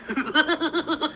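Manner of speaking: high imitated clown cackle; mock Krusty the Clown laugh. Imitating the clown laugh for the chat, high cackle. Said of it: "I can kinda do the Krusty the Clown laugh".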